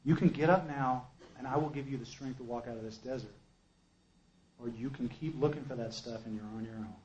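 low, soft, even delivery; calm inner voice. Retold or imitated. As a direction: imitate a calm guiding voice laying out two options. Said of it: "calm, comes into my head".

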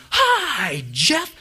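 high, loud crowd shout of "Hi, Jeff"; crowd yelling hello. Retold or imitated. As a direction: bellow it like three hundred people at once. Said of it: "at the top of their lungs".

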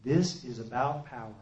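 low, quiet, clear voice of guidance; calm inner voice. Retold or imitated. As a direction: imitate a calm voice speaking inside your head. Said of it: "calm, comes into my head".

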